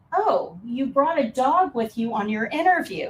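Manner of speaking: acted-out sarcastic tone. Speaker retells what they said to a woman at an interview, replaying a sarcastic remark. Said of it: "she totally missed the sarcasm there".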